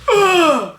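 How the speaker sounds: loud, high exasperated groan; bratty groan. Retold or imitated. Beast told to be nice, bratty groan. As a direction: groan like a brat in a tantrum. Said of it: "he's, like, a total brat".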